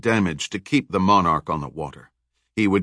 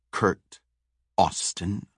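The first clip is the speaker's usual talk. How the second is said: slowly drawn-out name, lightly menacing; name dragged out; 5 dB quieter, much slower than usual. Acted. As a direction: savor his name, stretching it. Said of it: "She dragged the name out".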